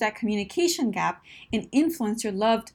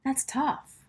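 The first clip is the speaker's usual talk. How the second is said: higher-pitched, sympathetic understanding; empathy; 4 semitones higher, 3 dB quieter, slower than usual. Shown as a demonstration. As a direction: show them you feel for them.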